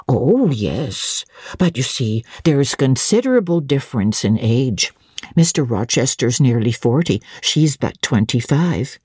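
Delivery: put-on a chatty old housekeeper recalling the evening; elderly housekeeper.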